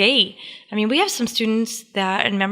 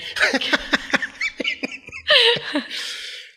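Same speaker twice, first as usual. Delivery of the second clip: burst of laughter. Real, not acted. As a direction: laugh out at the joke. Laughing at teasing joke.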